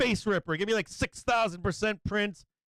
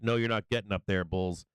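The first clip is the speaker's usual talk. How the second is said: taunting sellers; 11 semitones lower than usual. Acted. Sellers at the orange line taunting bulls, low menace. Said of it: "They're like".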